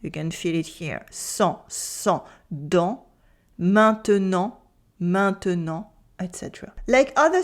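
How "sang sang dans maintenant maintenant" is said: "sang", "dans", "maintenant" ending on nasal ah; nasal vowels. Shown as a demonstration. Teacher leading practice, nasal vowels in "sang", "dans", "maintenant". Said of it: "airflow is directed through the nose".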